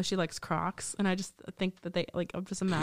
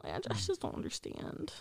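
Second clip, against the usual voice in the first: whispering; 8 semitones higher, 12 dB quieter than usual. Real, not acted. Disbelief in high whisper.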